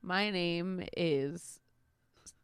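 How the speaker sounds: slow, hushed radio announcer intro; lightly voiced public radio host. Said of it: "what's your newscaster name".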